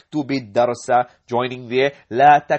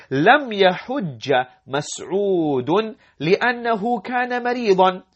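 quick read-aloud; 5 semitones higher, much faster than usual. Shown as a demonstration. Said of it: "reading the answer aloud".

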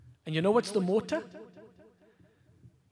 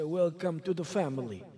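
put-on Italian accent; 4 semitones lower than usual. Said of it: "in an Italian accent".

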